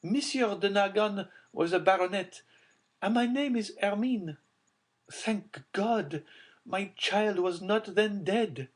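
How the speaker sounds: high joyful relief; relieved mother. A narrator's reading. Mother recognising her linen, high relieved voice. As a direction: thank God with rising joy. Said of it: "said Madame Danglars".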